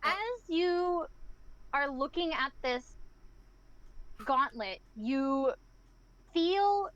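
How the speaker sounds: slow, measured scene-setting; game master narration. Acted. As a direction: draw out the description with pauses.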